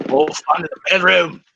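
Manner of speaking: put-on Aussie accent; comic Aussie mate voice; Australian accent. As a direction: tease in a broad mock-Australian accent. Comic Australian banter continues.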